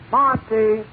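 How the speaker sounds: lightly acted conductor's holler. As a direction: call out the stop, mildly. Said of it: "The conductor hollers out".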